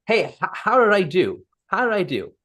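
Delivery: asking a partner how you did; eager check-in. Shown as a demonstration. Coach acting out an eager check-in for feedback.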